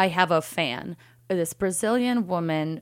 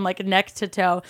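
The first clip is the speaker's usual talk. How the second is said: normal talking voice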